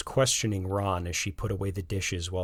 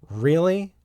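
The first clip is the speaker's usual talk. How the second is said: relieved; 9 semitones higher, 9 dB louder than usual. A narrator's reading.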